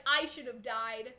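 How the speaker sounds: low, slow deadpan; slow, emotionless quote. Retold or imitated. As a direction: say it bleakly with no expression. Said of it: "Nolan just deadpan is like".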